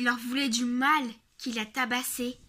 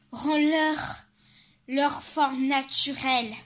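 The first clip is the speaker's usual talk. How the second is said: angry demand; 5 dB louder than usual. Acted. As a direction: order it angrily. Demanding the monster free them.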